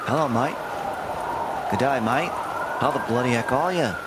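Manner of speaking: mild mock Aussie; a hint of Australian bloke; light Australian accent. Streamer keeps up his Australian accent for chat.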